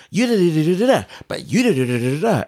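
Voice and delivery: "da da da" rattled off fast, no breath between; rushed flat delivery. Shown as a demonstration. Critic showing how the actors rushed their lines, fast and flat. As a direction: show lines yelled without a pause. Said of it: "it was just like".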